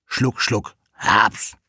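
punchy gobbling noises, building to a loud chomp; greedy gulping. A narrator's reading. Narrator mimics the wolf swallowing grandmother, loud greedy gulps.

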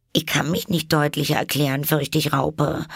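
put-on high, earnest girl's voice; Alice. A narrator's reading. Alice explains herself to the caterpillar. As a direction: plead to be understood.

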